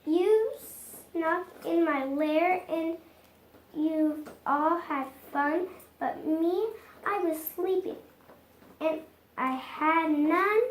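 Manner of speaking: a sulky bear whining to friends; a hint of a hurt, whimpering bear; whiny complaint. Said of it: "he whimpers, and he moans".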